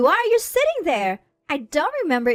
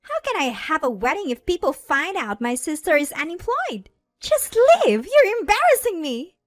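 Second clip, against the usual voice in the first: high, loud, outraged rant; berating; 12 semitones higher, 7 dB louder than usual. A narrator's reading. Bride berates her unemployed sister at the wedding, furious. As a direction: build to a loud, furious dismissal. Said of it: "Madeline continues to berate me".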